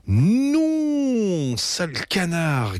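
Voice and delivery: high shrieking no, then slow; a kid yelping at a thief duck; yelping cry. A narrator's reading. Betty yelping at the duck stealing her sandwich. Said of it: "glapit Betty".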